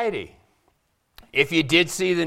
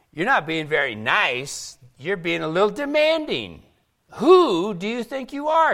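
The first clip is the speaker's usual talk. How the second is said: lightly acted protest, rising higher and louder; indignant crowd; 4 semitones higher, 3 dB louder than usual. Disciples objecting to Jesus's demands, indignant. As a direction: challenge him like an affronted listener. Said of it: "They're meaning".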